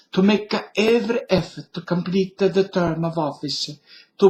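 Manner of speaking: put-on light Italian accent on a presidential speech; mild mock Italian accent. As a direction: read it like a stage Italian. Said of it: "with an Italian accent".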